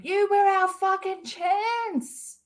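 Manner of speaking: hammed-up grief into the void; mock despair. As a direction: cry it down off the edge, hammed-up. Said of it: "I'm just looking over going".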